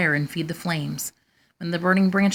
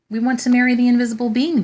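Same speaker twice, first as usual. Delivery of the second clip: 1 eager proud demand; 6 semitones higher, 5 dB louder, faster than usual. A narrator's reading. Proud sisters demand to marry.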